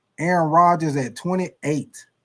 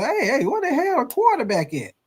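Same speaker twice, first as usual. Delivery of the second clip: teammate yelling; 7 semitones higher than usual. Acted. Teammates yell for missing quarterback.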